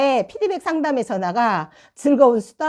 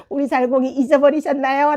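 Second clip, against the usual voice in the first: half-laughing, mock-tearful plea; mock whine; 4 semitones higher than usual. Mother jokingly whining that her child was forgotten. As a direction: whimper it with a laugh. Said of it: "라고 말씀을 하시더라고요".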